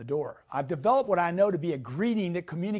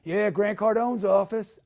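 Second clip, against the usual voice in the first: a lightly voiced receptionist pickup, slow; imitating answering phone; 2 semitones higher, 4 dB louder, slower than usual. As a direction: answer like the front desk. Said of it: "I answer".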